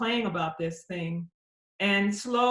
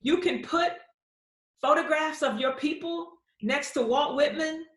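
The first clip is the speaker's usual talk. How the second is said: raised, wide-eyed disbelief; amazed; 5 semitones higher than usual. Retold or imitated. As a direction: gasp at the discovery, voice up high. Amazed at Clifton's book.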